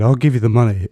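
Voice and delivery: retold shout. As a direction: shout the offer to stop the beating. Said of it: "I just shouted".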